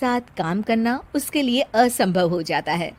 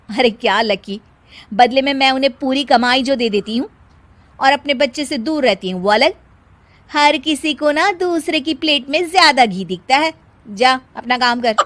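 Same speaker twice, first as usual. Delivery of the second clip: dismissive retort; 3 semitones higher, 6 dB louder than usual. Acted. Daughter-in-law snapping at friend.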